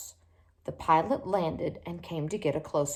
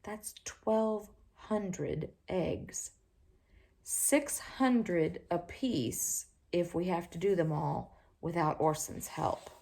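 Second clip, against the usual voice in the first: muttering to himself; 5 dB quieter, slower than usual. Acted. Father muttering dismayed sums.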